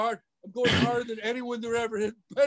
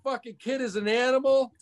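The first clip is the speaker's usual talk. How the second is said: hyped-up hype-man voice, lightly put on; Sam Tripoli impression; 2 semitones higher than usual. Co-host introducing a guest as Sam Tripoli, a lightly done brash hype voice. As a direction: talk him up like a brash podcast host. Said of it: "is that your Sam Tripoli impression".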